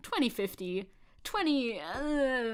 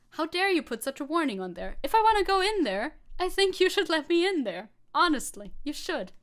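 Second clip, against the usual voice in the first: mock outrage; 6 semitones higher, 5 dB louder than usual. Mocking outraged meme poster.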